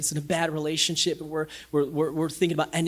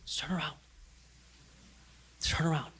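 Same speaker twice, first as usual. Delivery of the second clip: soft, much quieter plea; God gently calling the lost back; gentle call; 3 semitones lower, 10 dB quieter, faster than usual. Retold or imitated. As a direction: coax them back gently. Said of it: "God goes".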